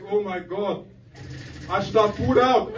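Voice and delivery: hammed-up tearful regret; mock crying. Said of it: "I'm crying like".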